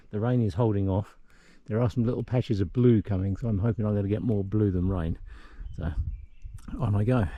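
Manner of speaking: out of breath from climbing; talking between breaths uphill; huffing and puffing. Real, not acted. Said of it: "apologies for the huffing and puffing".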